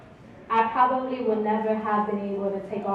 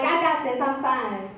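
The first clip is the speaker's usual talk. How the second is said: embarrassed brush-off; 3 semitones higher than usual. Retold or imitated. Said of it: "I'm upset, I'm embarrassed".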